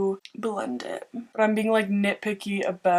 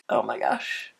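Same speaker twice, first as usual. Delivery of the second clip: whispering; 10 semitones lower, 4 dB quieter than usual. Real, not acted. Whispered aside after song.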